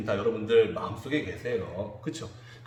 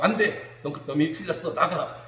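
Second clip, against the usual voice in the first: mock angry parent; 4 semitones higher than usual. Parent shouting at a child who comes to apologise, mock angry yell. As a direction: play a parent yelling "get out", half in jest. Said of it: "이러지 않아요".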